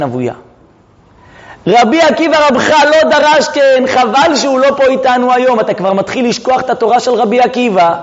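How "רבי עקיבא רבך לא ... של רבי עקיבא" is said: raised, insistent teacher's reproach; dramatized rabbi correcting his student; acted rebuke. Elisha rebukes his former pupil.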